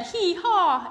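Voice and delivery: loud, high braying; donkey bray. Acted. Donkey noise.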